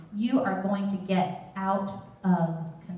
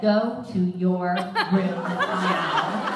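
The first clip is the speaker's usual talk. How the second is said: stern order; 4 dB louder, much slower than usual. Retold or imitated. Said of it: "And I said".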